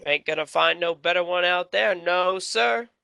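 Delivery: gruff half orc cook voice; a lightly voiced big half orc cook; grotesque monster voice. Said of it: "you hear a deep voice from behind you say".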